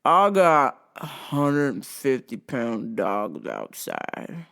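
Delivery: slow, halting redneck drawl; redneck customer. Retold or imitated. Drunk redneck customer asking the clerk for Benadryl, slow drawl. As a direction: drag it out like a dazed redneck. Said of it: "dare is a rednecky type customer".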